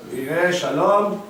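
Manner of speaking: Yireh Shalom said slowly, each syllable clear; teacher sounding out Yireh Shalom; slow Hebrew demo. Shown as a demonstration. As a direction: spell out Yireh Shalom by ear. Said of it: "two words in Hebrew".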